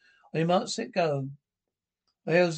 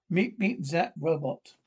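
robot voice; slower than usual. Acted. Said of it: "That's a terrible robot voice".

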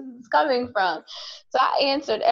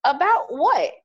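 higher-pitched baffled comeback; mock bewilderment, pitched up; thrown off; 5 semitones higher than usual. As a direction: retell it as a puzzled, taken-aback question. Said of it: "I was thrown off 'cause".

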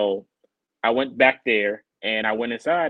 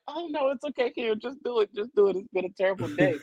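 retold miserable refusal; 11 semitones higher than usual. Acts out his miserable refusal.

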